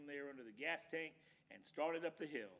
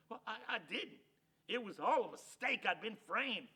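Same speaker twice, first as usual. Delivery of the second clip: higher, stammering protest of innocence; flustered pleading; 6 semitones higher, 6 dB louder than usual. Acted. Hank protesting to Loper that he was framed, flustered. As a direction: plead that you were framed.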